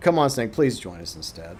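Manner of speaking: put-on earnest, imploring, begging tone. Retelling how another player asked snake to join: imitating someone begging. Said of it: "he was literally begging".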